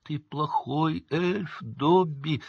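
high, long-drawn moan. A narrator's reading. Winky reproaching Dobby, high slow moan. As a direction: wail it slowly in reproach. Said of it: "простонала Винки".

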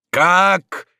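high, loud outcry of disbelief; appalled exclamation. A narrator's reading. Father appalled at a duel in the street, loud exclamation. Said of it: "воскликнул Дон Руис, воздев руки".

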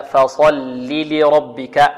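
"فصل لربك" slow, thin ف, thick ص; light fa, heavy sad. Shown as a demonstration. Teacher demonstrates rule for students, light fa, heavy sad. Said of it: "ونرقق الفاء ونفخم الصاد، هكذا".

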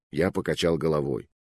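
ordinary delivery, nothing marked

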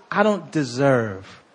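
slow, low humble words; humble admission. Retold or imitated. Preacher voicing a humbled sinner, slow and low. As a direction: say it humbly, slowly. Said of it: "what comes out is".

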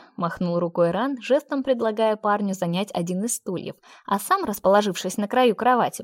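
plain reading voice

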